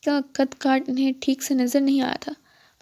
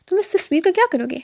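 friendly; 6 semitones higher, 4 dB louder than usual. A narrator's reading. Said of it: "بہت دوستانہ انداز میں مخاطب کیا".

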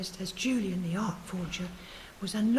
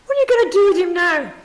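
loud, higher, fast harsh demand; harsh, harassing; 9 semitones higher, 15 dB louder, faster than usual. A narrator's reading. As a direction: push him hard with the question. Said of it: "in a harsh and harassing voice".

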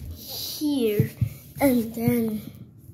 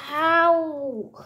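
high, drawn-out mock ow; pretend cry of pain; 5 semitones higher, 3 dB louder than usual. Trapped character hurts while being cooked, high pretend cry of pain. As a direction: yelp in play pain.

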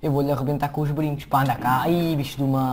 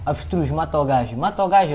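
urging shout; 5 dB louder, faster than usual. Real, not acted. Urging the ostrich to attack.

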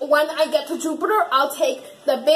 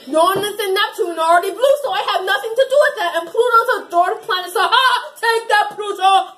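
fast, higher gleeful taunting rant; gloating villain; 3 semitones higher, faster than usual. Pretend. Kid villain taunts the planets in a gleeful, fast rant. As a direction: rattle it off, gloating over your victory.

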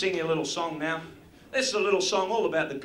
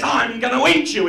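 big bad wolf; 6 semitones higher, 8 dB louder than usual.

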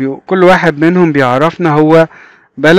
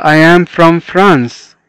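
very slow, each word stretched apart; very slow model reading; much slower than usual. Shown as a demonstration. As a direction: dictate it slowly for beginners. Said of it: "صديقنا ده بيقول لنا".

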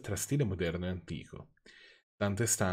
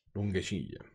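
mock echo; 3 dB quieter, slower than usual.

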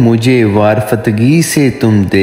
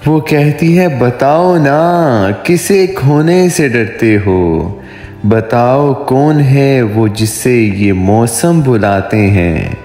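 poetry recitation; 3 semitones higher than usual. Acted. Poet voicing a dialogue of lovers for his viewers, romantic poetry recitation. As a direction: recite a love poem, lingering on line endings. Recites own love poem.

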